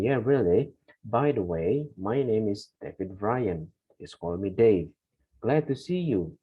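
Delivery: slow, careful reading of a conversation; model dialogue reading. Acted. Teacher reading a sample dialogue aloud for students. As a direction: read both roles slowly and clearly.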